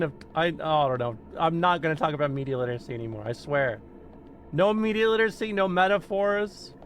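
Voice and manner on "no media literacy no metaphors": mock vow. Real, not acted. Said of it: "vow, mock declaration".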